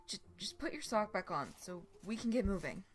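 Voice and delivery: stumbling over the first words; flustered, tripping start; stammering. Acted. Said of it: "he stammered".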